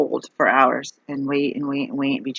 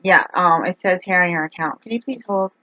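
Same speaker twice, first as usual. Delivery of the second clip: mock script-reading agent; 3 semitones higher than usual. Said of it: "They have this script".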